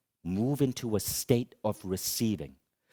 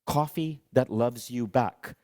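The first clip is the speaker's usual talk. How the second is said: slow reading; slower than usual. Shown as a demonstration. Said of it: "the other side actually said this".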